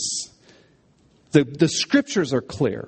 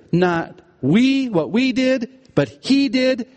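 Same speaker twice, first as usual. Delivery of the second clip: "we" and "he" punched higher, in contrast; stressed pronouns; 6 semitones higher, slower than usual. Shown as a demonstration. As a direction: set a high, stressed "he" against "we". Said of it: "there's three pronouns here".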